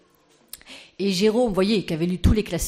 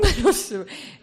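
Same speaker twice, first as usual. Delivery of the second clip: laugh; 6 semitones higher, 4 dB louder than usual. Real, not acted. Laughing at own impression.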